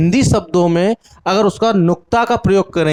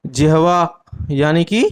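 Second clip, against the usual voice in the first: slow, clear; slower than usual. Shown as a demonstration. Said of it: "तो कहाँ से करेंगे?".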